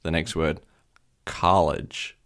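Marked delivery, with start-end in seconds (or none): 1.2-2.2 "college" with an American ah vowel; mock American "college", open ah; terrible American accent. Shown as a demonstration. Demonstrating to a friend, American "college" with ah. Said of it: "terrible American accent".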